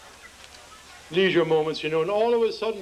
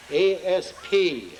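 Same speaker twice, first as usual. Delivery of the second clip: spelled out slowly; slower than usual. Shown as a demonstration. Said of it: "spells out the word".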